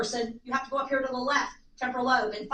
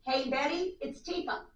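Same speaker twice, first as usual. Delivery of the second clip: polite greeting; 4 dB quieter, slower than usual. Shown as a demonstration. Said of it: "here's what you wanna learn how to do".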